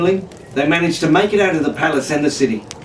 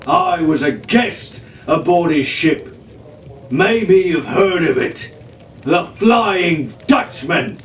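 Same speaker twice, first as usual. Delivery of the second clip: menacing giant; 3 semitones higher than usual. Acted. Giant pirate's menacing tale.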